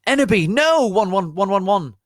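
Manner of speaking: very high, loud anguished scream. A narrator's reading. Draco trying to stop Enderby, high anguished scream. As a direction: shriek to stop her. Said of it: "screamed Draco".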